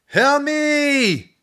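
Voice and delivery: panicked high scream. A narrator's reading. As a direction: shriek it in panic. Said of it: "Drew screamed".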